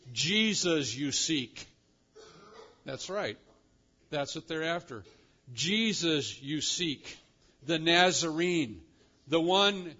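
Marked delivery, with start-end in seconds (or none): 0.1-1.7 slow, weighted "Jesus you seek"; emphatic. Acted. Angel tells the women whom they seek, emphatic. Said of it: "he says with emphasis". 5.5-10.0 slow, deliberate "Jesus you seek"; emphatic. Acted. Preacher repeats the angel's words to the women, emphatic. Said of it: "he says with emphasis".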